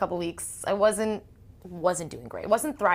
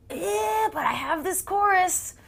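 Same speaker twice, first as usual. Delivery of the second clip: mock eager singer; 13 semitones higher, 4 dB louder, slower than usual. Imitating a singer's eager reply.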